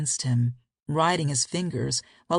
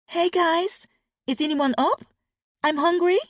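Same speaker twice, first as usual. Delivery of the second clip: put-on high little girl's loud whisper, light Australian lilt; a small child stage-whispering that she is hungry; tiny loud whisper; 14 semitones higher, 5 dB louder than usual. A narrator's reading. Little daughter wakes her parents, high loud whisper. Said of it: "A tiny voice with a light Australian accent loud whispered".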